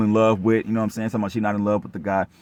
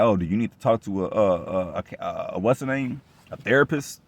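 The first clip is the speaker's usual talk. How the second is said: mocking family. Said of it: "And they're like".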